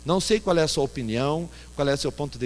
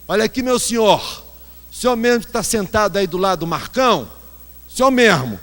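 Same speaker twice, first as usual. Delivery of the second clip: mock calling out; 4 semitones higher, 5 dB louder than usual. Baby calling out passenger.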